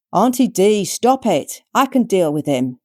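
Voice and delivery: loud, high snap; exasperated nephew. A narrator's reading. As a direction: stop an aunt's nonsense. Son stopping his aunt.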